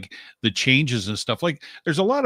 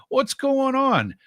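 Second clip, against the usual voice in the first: high, drawn-out puzzlement; acted bafflement; 14 semitones higher, much slower than usual. Guest retelling thinking back to album covers, acted bafflement. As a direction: slowly replay being baffled, pitched way up.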